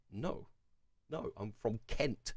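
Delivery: soft, understated correction; retold deflated reply. Vlogger correcting a stranger about his origins, quietly deflated. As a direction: answer quietly, letting it drop.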